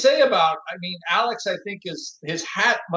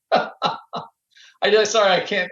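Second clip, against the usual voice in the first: laughing; much slower than usual. Real, not acted. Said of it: "I can't stop laughing".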